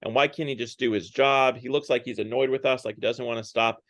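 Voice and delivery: annoyed groan into mild grumbling; mock complaining. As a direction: grumble lightly, imitating the passengers. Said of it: "they complain about it".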